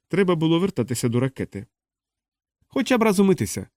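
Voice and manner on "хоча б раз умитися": high-pitched, mildly pitiful complaint; plaintive sigh. A narrator's reading. Cybernetician longing for a wash, plaintive. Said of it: "жалісно зітхнув кібернетик".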